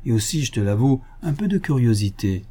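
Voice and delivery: lightly voiced gentleman thief, teasing; mock friendly, toying with him; sly Lupin. Lupin teases the inspector about the silk, lightly voiced.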